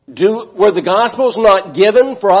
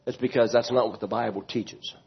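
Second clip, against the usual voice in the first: imitating the listener; 7 semitones lower, 10 dB quieter than usual. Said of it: "You say".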